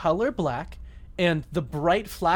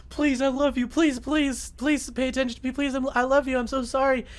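high-pitched imitation of a begging girlfriend; mock pleading; 8 semitones higher than usual. Girlfriend calling back to beg his attention, mock pleading. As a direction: plead in a raised, hammed-up voice.

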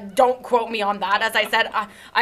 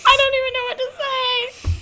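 laughing; 12 semitones higher than usual. Real, not acted. Laughing at absurd fanfic.

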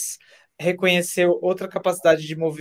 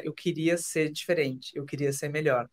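soft longing; 3 semitones lower, 6 dB quieter than usual. Retold or imitated. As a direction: say it quietly, almost to yourself. The wish beneath self-hatred.

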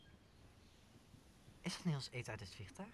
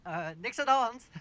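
loud, high, flustered reassurance; loud cover-up; 16 dB louder than usual. Acted. Schemer loudly covering his partner's slip. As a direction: blurt out that all is fine.

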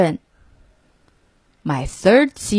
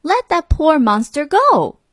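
yelled; 7 semitones higher than usual. A narrator's reading. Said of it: "he yelled".

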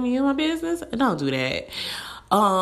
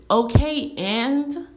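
high, sharp "so what" shrug; dismissive okay; 5 semitones higher, much slower than usual. Real, not acted. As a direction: brush it off, unimpressed. Dismissive reply to complaints.

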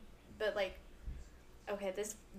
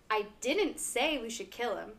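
"didn't" punched, the rest of the sentence level; stress on didn't. Shown as a demonstration. Friend demos the example sentence with stress on "didn't". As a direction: deny it hard on "didn't". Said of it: "if you emphasize on one word".

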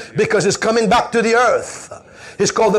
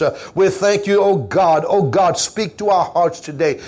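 prayer. Acted. Pastor leads congregation in prayer.

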